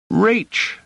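put-on very high, squeezed young voice; choked, embarrassed. A narrator's reading. Boy gives his name to the woman, choked and embarrassed. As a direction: squeak it out, embarrassed. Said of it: "in a rather choked and embarrassed voice".

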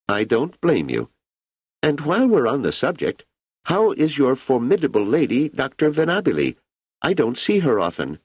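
put-on an ageing emperor musing easily to an old friend; Emperor Cleon.

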